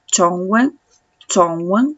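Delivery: Chongwen slowly, then repeated; teacher models the Mandarin word. Shown as a demonstration. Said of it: "que es idioma chino".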